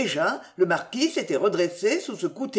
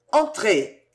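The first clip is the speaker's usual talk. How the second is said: call out; 3 semitones higher, 4 dB louder than usual. Acted. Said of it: "cria-t-il".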